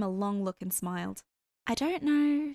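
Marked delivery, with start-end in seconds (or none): 1.7-2.5 high, lilting teasing tune; sing-song it to tease him; playful sing-song, pitched up. A narrator's reading. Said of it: "she sing-songed".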